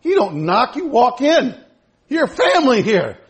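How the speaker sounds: affectionate telling-off, acted out; imitated scolding. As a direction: insist on it, mildly indignant. Grandma scolding grandson in story.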